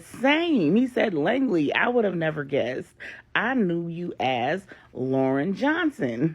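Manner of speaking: loud, high, laughing along; excited. Acted. Angela gushing to Lauren about the surprise, loud and high. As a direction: gush with delight at the coincidence.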